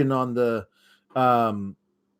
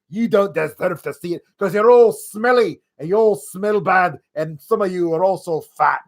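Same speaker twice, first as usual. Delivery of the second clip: mock heel taunt; 4 semitones higher than usual. Acting Drew insulting the crowd.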